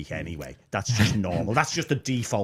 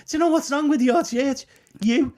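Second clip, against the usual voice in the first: high, louder, punchy accusation; blunt retorted jab; 4 dB louder than usual. Retold or imitated. Mentor telling the new pastor his problem, blunt teasing jab. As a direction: land the last word like a friendly dig. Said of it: "he said".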